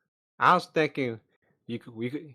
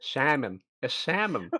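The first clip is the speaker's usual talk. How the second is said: plain falling model of Turnip's accent; slower than usual. Shown as a demonstration. Turnip correcting the others' attempts, in own accent. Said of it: "Uh, Turnip's accent".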